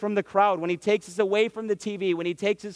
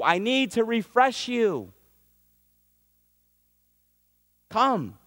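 higher, firm, urgent divine summons; God calling Abram; 5 semitones higher than usual. Acted. Higher urgent voice as God calls Abram apart. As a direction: call him aside, insistent and earnest.

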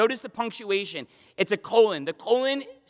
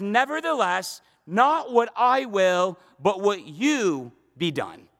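slow surrendering prayer; slower than usual. Acted. Voicing Jesus' surrender, slowed.

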